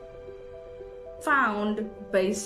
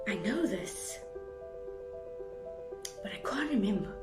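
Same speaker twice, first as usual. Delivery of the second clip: softer, as if searching memory; acted struggle to recall; 8 dB quieter than usual. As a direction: say it quietly, like an inner thought. Acts out failing to recall.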